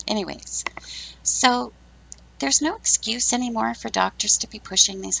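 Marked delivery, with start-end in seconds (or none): 0.0-0.6 laughing. Real, not acted. Laughs at own mispronunciation.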